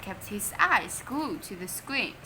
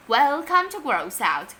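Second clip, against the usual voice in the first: shrieked welcome; 3 semitones higher, 6 dB louder than usual. Acted. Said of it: "shrieked the presenter".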